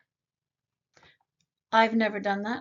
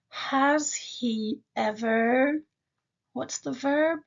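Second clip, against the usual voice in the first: imitating a student; 2 semitones higher, much slower than usual. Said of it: "I can hear you saying".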